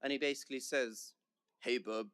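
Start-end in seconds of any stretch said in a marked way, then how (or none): 1.6-2.1 British speaker's attempt at American; American accent. Student mimicking a bloke at the gym, mock American accent. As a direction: put on a rough American accent. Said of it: "that's my American accent right there".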